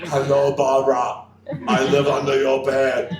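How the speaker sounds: hammy bogeyman taunting from under the bed; creepy playful under bed whisper. Pretend. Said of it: "He's gonna be voicing a movie".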